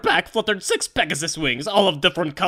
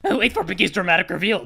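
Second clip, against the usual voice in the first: normal talking voice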